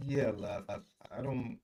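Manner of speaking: muffled, garbled bad connection; underwater audio. Real, not acted. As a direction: sounds like talking underwater. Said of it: "It sound like your audio is underwater".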